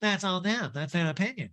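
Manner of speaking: high nasal impression; pinched, dismissive put-on voice; mock retort in a high voice; Erica Jane. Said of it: "that Erica Jane imitation".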